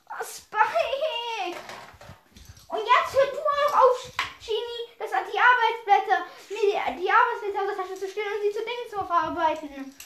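exasperated scolding. Acted. Telling Genie off over stolen worksheets, exasperated.

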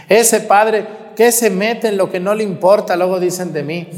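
lightly voiced backbiting neighbour; mock gossip. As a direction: sneer it like the town gossips. Mocking what people say.

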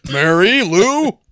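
high, slow drawn-out "Mary Lou"; condescending Ted voice. Retold or imitated. Podcaster imitating Ted Baxter, slow and condescending. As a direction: stretch the name out like a pompous anchorman. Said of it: "a little deeper, a little more condescending".

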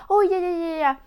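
put-on high, hushing adult shushing a crying child; mock-soothing, brushing off the tears. A parent hushing a crying child, high and dismissive.

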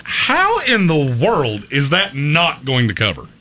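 slow, drawn-out disbelief; stretched-out, emphatic bafflement; incredulous. Retold or imitated. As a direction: ask it as if baffled by the odds. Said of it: "just going".

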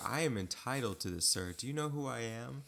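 lightly voiced indignant star athlete; a hint of a pompous baller protesting; entitled star player. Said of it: "protesting like he was LeBron James".

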